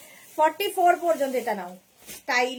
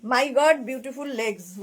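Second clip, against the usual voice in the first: imitating a foreign viewer; much slower than usual. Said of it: "তোমার ভাই আমার legs খুব পছন্দ করেছে".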